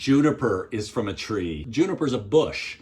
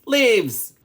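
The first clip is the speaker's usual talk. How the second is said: playful exclamation; 9 semitones higher, 6 dB louder than usual. Real, not acted. Announcing ingredient playfully.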